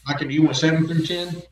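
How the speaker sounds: muffled as if underwater; bad line, voice bubbling like underwater. Real, not acted. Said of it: "You do sound like you're underwater".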